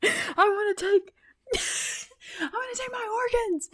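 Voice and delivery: high, breaking into laughter; giggling fit; laughing. Real, not acted. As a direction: laugh through the words. Laughing while trying to speak.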